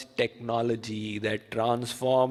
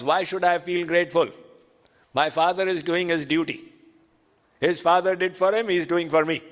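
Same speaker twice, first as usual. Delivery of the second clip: son answering back; 3 semitones higher, faster than usual. Acted. Son retorts to the father.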